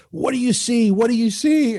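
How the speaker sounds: high, pressing dad question; imitating dad. Dad pinning down his screaming son, urgent. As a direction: mimic a worried dad urging an answer. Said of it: "And he goes".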